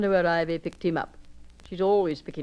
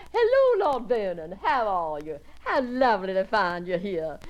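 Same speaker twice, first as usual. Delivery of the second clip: effusive guest, rushing from one greeting to the next; gushing society guest; 2 semitones higher than usual. Acted. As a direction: pour it out, delighted with everyone. Gushing visitor greets the house party.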